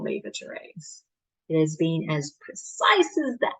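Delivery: performed dramatic monologue with measured pauses; Doctor de Koven. Acted. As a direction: argue the case to a listener, pausing between points. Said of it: "performing a monologue of Doctor de Koven".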